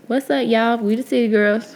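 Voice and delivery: bright, upbeat show intro; hype intro. Shown as a demonstration. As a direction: announce it like a hype host. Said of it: "wait, we gotta do this".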